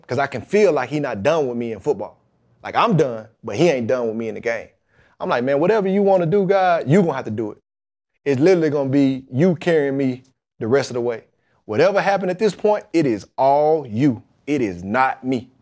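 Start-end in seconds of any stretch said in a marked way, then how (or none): 5.4-15.5 retold prayer, emphatic surrender to God; fervent prayer. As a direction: plead it upward, leaning hard on the key words. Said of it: "I go in my prayer closet and I pray".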